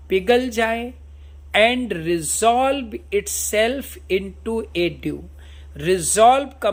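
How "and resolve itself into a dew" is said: slow, drawn-out reading of Shakespeare; slow recitation. Shown as a demonstration. Teacher reading Hamlet's soliloquy to students, slow solemn recitation. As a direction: recite each word slowly and solemnly.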